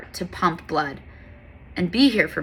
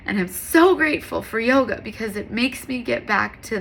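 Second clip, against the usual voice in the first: teary-eyed; 5 semitones higher than usual. Real, not acted. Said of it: "That's why I'm teary-eyed".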